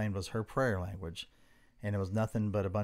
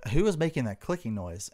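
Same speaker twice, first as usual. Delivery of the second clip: raised, louder voice in a mock African accent; put-on African accent; 5 semitones higher, 5 dB louder than usual. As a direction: demand answers in a lightly put-on African accent. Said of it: "why I'm doing this accent".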